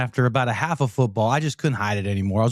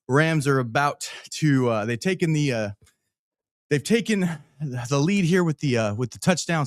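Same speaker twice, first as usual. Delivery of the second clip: out of breath; 2 semitones higher than usual. Real, not acted. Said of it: "Sorry, I'm out of breath".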